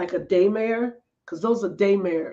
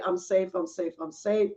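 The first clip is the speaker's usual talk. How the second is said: soothing mantra; slower than usual. Shown as a demonstration. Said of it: "you say".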